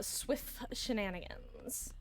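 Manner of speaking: slow, soft mock delivery; drawn-out playful phrasing; lightly hammed-up wordplay; silly put-on voice. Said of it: "I don't know why I said it like that".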